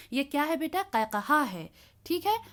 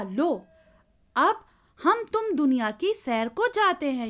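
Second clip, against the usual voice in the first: lightly voiced gleeful wind, a bit louder; 2 semitones higher, 3 dB louder than usual. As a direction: call out like the wind inviting the kite. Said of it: "हवा ने कहा". (हवा का हल्का सा खुश अंदाज़)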